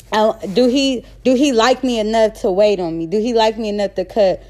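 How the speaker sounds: tripping over words with restarts; halting, self-correcting delivery; stuttering. Real, not acted. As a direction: stumble and restart as you get the thought out. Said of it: "I'm stuttering so much".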